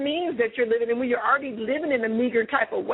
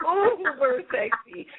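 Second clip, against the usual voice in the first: slow, stretched-out swoon; drawn-out gushing; 3 semitones higher, much slower than usual. Real, not acted. Host gushing over the caller's sexy voice, drawn out. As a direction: linger on each word in playful admiration.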